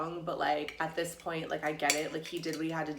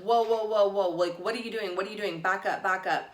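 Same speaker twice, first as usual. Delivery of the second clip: mildly panicked, a little raised in pitch; loud start on the whoas, then easing; retold freak-out; 3 semitones higher, 4 dB louder, faster than usual. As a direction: act out backing people off in alarm. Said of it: "I start to freak out".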